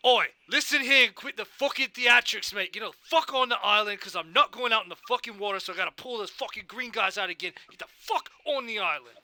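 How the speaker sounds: bully the crab onto the island, yelling; intimidating yell. Acted.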